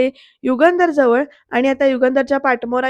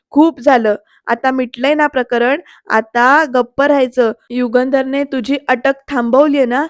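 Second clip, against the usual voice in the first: stern scolding; 4 dB louder than usual. Retold or imitated. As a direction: lay down the law. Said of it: "अशा शब्दात ... सुनावलंय".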